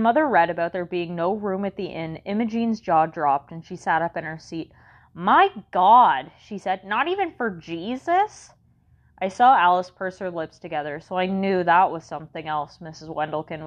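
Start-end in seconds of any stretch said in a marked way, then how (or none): 5.1-8.5 shocked. Acted. Imogene shocked at the inn.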